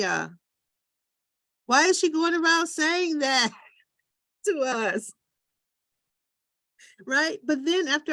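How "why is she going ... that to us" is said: puzzled brother. Retold or imitated. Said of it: "they thought something was wrong".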